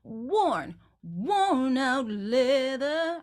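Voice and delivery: worn out leather, slow, leaning on worn; worn drawn out and leaned on. Shown as a demonstration. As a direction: press into worn slowly. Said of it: "I would lean for sure on the word worn".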